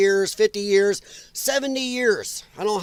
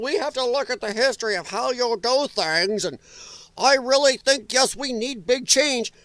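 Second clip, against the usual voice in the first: mock British economist, slightly raised pitch; British accent; 4 semitones higher than usual. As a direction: imitate a pundit with a British accent. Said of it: "I'm saying it in British accent".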